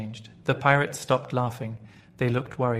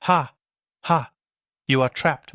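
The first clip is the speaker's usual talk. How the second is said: shouting; 3 semitones higher, 6 dB louder than usual. Acted. Pirate captain taunting the cornered doctor, loud gloating shout. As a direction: crow over the trapped doctor at full volume. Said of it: "shook his fist and shouted".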